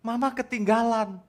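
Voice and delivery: put-on high little-kid voice; acted child voice; upset small child. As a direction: complain like a child telling a bad dream. Child voice in dream story.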